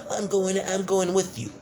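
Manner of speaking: high, put-on bratty insistence; mock whiny daughter. Reviewer mimicking the daughter insisting she comes along, high mock whine. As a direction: play her as a whiny kid.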